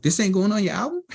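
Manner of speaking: high-pitched retold disbelief; incredulous question. Producer questioning a rapper about his album, incredulous. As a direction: act out being thrown by the news. Retelling own baffled reaction.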